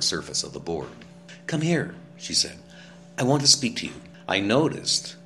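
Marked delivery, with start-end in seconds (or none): 1.5-1.9 Naomi calling. A narrator's reading. Naomi calls him over. 3.2-3.9 Naomi urging. A narrator's reading. Naomi voiced, higher and louder.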